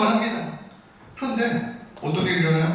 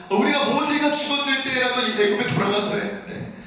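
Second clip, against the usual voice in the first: higher-pitched mock grumbling; resentful complaint; 6 semitones higher than usual. Israelites wishing they had gone back to Egypt, resentful complaint. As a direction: imitate a crowd regretting it stayed. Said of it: "또 원망하고".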